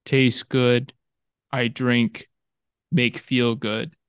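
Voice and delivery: lightly voiced caveman, broken words; a hint of caveman grunting out simple words; caveman talk. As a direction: play dumb like a Neanderthal tasting beer. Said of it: "relatively Neanderthal analysis of beer".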